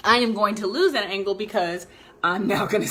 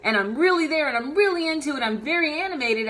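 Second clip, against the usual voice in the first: higher and louder, really into it; animated; 6 semitones higher, 4 dB louder than usual. Shown as a demonstration. Coach contrasting animated delivery with flat talk. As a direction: show full animated energy. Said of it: "when I talk like this and I'm really there".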